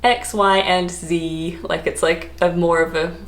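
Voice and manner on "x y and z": Z said as ZEE; rhyming zee. Shown as a demonstration. Recalling how kids learn the alphabet, rhyming zee. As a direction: end on "Z" pronounced zee, in rhythm. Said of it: "Z just rhymes".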